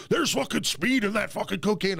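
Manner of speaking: high-pitched indignant accusation; imitating livid anger. Friend retells Glenn accusing him of bad cocaine, mock livid. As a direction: mimic a furious customer's complaint. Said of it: "he's fucking livid mad at me".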